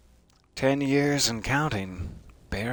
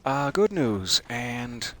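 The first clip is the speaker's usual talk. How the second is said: mock chirpy; 5 semitones higher than usual. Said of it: "jumping back to chirpy".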